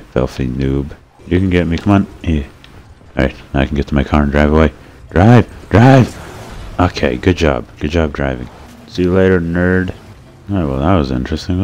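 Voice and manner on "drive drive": high, loud, urgent command; frantic shout, rising higher on the repeat. Real, not acted. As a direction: yell to get the car moving. Urging the car away in game.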